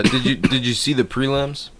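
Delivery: ordinary delivery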